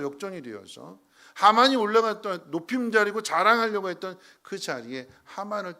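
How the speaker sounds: loud, high-pitched fervent preaching; preaching at full force. Acted. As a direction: drive the point home from the pulpit. Preacher builds climax.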